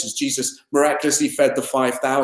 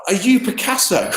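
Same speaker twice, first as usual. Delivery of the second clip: higher, eager gasp of wonder; sincere amazement; 6 semitones higher than usual. Retold or imitated. To an amazing painter, sincere awe. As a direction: gush with no hint of sarcasm. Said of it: "with no hint of sarcasm".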